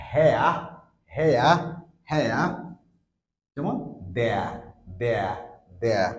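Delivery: হেয়া, দেয়া said with e sliding into a, falling; example words. Shown as a demonstration. Teacher giving example words to the class. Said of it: "So এখানে আমরা বলবো".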